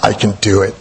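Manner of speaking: a hint of a gravelly little boy; lightly voiced small child. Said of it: "He had this gravelly little voice".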